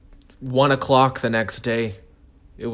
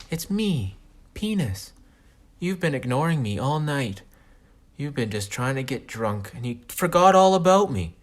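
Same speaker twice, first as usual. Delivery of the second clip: talking penis voice; 4 semitones higher than usual. Retold or imitated. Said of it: "my dick talking".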